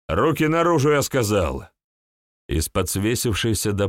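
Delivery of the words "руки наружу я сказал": stern shout. Acted. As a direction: bark the command. Cop orders man from under bed.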